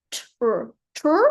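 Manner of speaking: TR with a crisp separate T before the R; over-enunciated. Shown as a demonstration. Teacher showing the too enunciated sound for pupil, carefully articulated. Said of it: "too enunciated for our accent".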